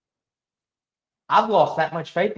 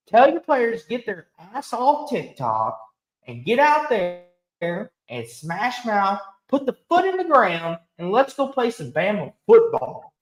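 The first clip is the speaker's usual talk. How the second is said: fired-up rant; 3 semitones higher than usual. Real, not acted. Fan calling out the Bama coach, fired-up and commanding. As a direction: bark orders at the team through the screen. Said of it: "now that we know my rant".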